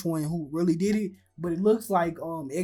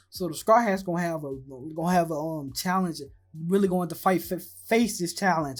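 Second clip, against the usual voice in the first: stumbling over words with false starts; stuttering. Real, not acted. Vlogger losing his words mid-prediction, stumbling. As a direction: trip up, restart and correct yourself. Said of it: "I don't know why I'm stuttering".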